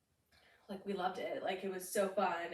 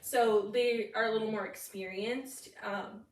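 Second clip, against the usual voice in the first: hiccups; 3 dB louder than usual. Real, not acted. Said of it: "I have the hiccups".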